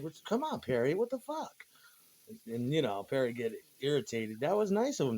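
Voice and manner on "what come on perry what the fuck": much higher, exasperated "what the fuck"; imitating the guitarist's disbelief. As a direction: play the baffled guitarist asking a bandmate what's going on. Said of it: "He's just standing there like".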